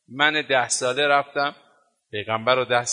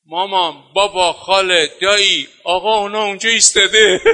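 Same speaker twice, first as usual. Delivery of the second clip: put-on child calling out, building louder and higher; retold shout; 7 semitones higher, 10 dB louder than usual. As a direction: call out to family, laughing, voice climbing. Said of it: "فریاد زد گفت". (فریاد کودکانه و بلند، با خنده)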